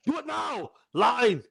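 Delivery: lightly voiced Arnold directing a set; loud film set calls. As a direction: call out to the crew like a director. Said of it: "imagine Arnold on set directing".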